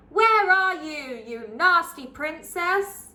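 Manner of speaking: loud, raging call while running blind; angry shout. Acted. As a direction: shout after the princess.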